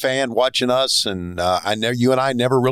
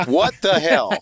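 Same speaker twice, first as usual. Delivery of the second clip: laughing disbelief; 7 semitones higher, slower than usual. Real, not acted. Host laughing at story.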